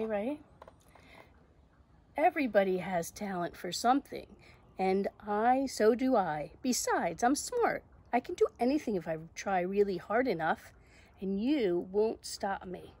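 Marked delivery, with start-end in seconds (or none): 2.2-12.9 animated, determined storybook heroine; self-assured Zoe. Acted. Zoe answering the doubting voice, self-assured. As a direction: argue back with firm confidence. Reads Zoe's retort.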